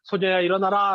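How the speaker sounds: put-on Jesus gently waking the sleeping girl, tender; gentle waking. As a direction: wake a sleeping child tenderly. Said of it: "잠자고 있는 아이에게".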